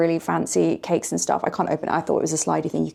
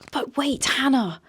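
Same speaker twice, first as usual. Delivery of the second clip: lightly acted, high-pitched questioning; mock curious viewer; 5 semitones higher than usual. Imagined viewer asks Hannah about booking, mock curious. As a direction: ask it high, like an eager viewer.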